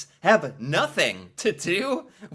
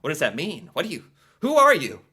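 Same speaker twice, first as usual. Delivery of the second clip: baffled American, rising to a louder, faster what do you; mock bewildered passerby, louder at the end; confused stranger; 5 dB louder, faster than usual. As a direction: play the stranger getting spooked. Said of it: "they're gonna be like".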